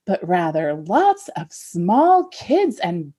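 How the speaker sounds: a lightly theatrical fairy-tale read; dramatic story reading. Shown as a demonstration. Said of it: "a dramatic abridged reading".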